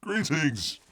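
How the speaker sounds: high, loud showman's greeting; grand greeting. Acted. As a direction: hail the viewers like an alien visitor. Streamer opens show as Bear.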